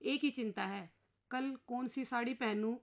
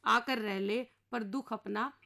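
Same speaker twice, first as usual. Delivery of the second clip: poem recitation; slower than usual. Acted. Married inspector telling the husband he can't save him, slow verse. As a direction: chant the weary inspector's lament slowly.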